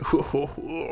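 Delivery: soft mock "hoo-hoo-hoo"; imitated appreciative hooting. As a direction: hoot quietly like an impressed dad.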